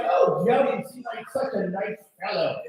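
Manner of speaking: lightly voiced kindly mother, lopsided mouth; Missus Doubtfire. Girlfriend's mother compliments Joe, lightly put-on matronly voice. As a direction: put on a hint of an old-lady character. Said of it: "she sounds like Missus Doubtfire".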